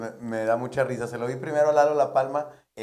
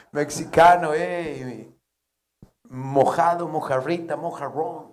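taunting bartender; 4 semitones higher, 6 dB louder, much slower than usual. Acted.

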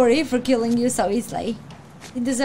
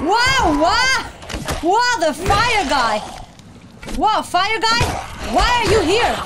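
surprised; 10 semitones higher, slower than usual. Real, not acted. Fire guy appears in game.

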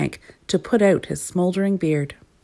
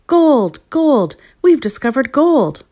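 high, loud proclamation; exultant shout; 7 semitones higher, 6 dB louder, slower than usual. A narrator's reading. Gnome announcing gold from the mountain, shouting. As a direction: call it out from a mountaintop. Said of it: "shouted at the top of his voice".

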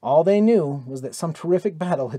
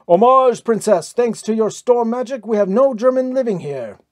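much higher and louder triumphant cry; wild shout; 8 semitones higher, 6 dB louder than usual. A narrator's reading. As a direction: hail her like a victorious war host. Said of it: "A wild shout crashed from them".

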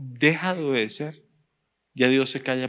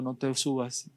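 small voice; 2 semitones lower, 7 dB quieter, slower than usual. Acted. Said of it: "escuchó la vocecita que le dijo".

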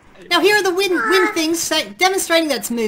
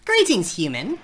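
Papyrus voice; 11 semitones lower, 3 dB quieter, slower than usual. Pretend. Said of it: "I'm the Great Trap Papyrus".

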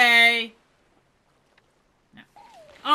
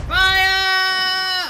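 loud pirate order to fire; shouted command; 6 semitones higher, 6 dB louder than usual. Real, not acted. Yelling to the crew to fire the cannon. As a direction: bellow it at the crew.

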